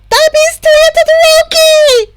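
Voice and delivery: high, piercing shriek; screech. A narrator's reading. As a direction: blurt the secret at full volume. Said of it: "Himiko screeched".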